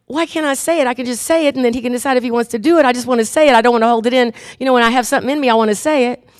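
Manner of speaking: mildly pleading self-justification; protesting. Acted. Wife arguing with the little voice, protesting. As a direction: argue your case insistently.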